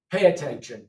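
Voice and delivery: "Pay attention." repeated firmly; teacher command repeat. Shown as a demonstration. Teacher repeating the command, firm and loud. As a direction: repeat the order to the class. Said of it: "This is like you're talking to a class".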